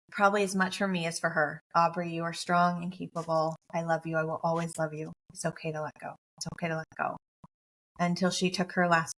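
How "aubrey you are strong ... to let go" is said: fading tender whisper-like comfort. Retold or imitated. Repeating comfort as she dies.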